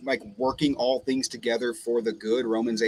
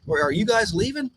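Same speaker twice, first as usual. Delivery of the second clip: voicing his friend; 8 semitones higher than usual. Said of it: "He goes".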